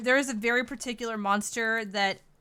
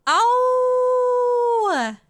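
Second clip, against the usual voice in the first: surprised; 10 dB louder than usual. Real, not acted. Thanked for a follow.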